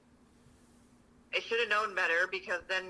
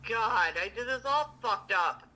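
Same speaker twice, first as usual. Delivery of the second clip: slow dismay; slower than usual. Retold or imitated. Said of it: "And I'm like".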